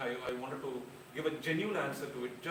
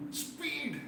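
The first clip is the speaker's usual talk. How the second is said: high, sharp mock call to speed up; urgent hurry-up cry; 14 semitones higher than usual. The audience urging the overtime speaker, a high mock cry. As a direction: urge him on in a sudden high yelp.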